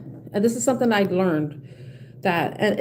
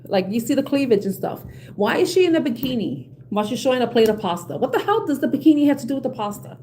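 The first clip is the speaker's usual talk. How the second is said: raised, mock-outraged retelling of the argument; heated rant; 2 semitones higher than usual. Arguing with a friend over his excuses, heated. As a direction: press each question like you can't believe it. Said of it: "I got so heated".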